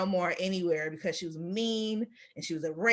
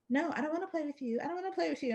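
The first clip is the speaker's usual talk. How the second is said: put-on child refusal; 8 semitones higher, 7 dB quieter, faster than usual. Girl refusing to play.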